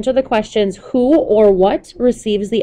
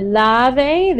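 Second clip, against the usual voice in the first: "lave" with a little emphasis on the a; stress on the A. Shown as a demonstration. Teacher showing students where lave is stressed, emphasis on the a. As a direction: lean lightly on the first syllable of "lave". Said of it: "emphasis on the a".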